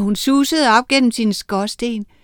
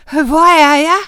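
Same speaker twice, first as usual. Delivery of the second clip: higher, louder bewildered question; confused boy; 7 semitones higher, 9 dB louder than usual. Acted. Ole asking where he is, confused and high. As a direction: ask as a lost boy.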